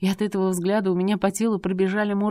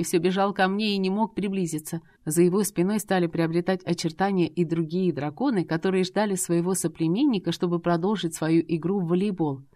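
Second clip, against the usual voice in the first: ordinary delivery, nothing marked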